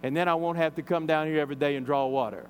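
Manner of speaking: half-intrigued, half-sarcastic acceptance; retold with a touch of sarcasm. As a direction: go along with it, mildly skeptical. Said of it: "or perhaps sarcastically".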